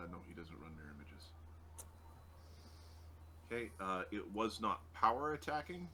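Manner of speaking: normal talking voice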